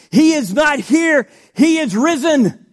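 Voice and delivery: loud, high triumphant proclamation; shouted Easter proclamation; proclaimed shout. Shown as a demonstration. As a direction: ring it out like good news. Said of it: "Come on, people, let's shout for that one".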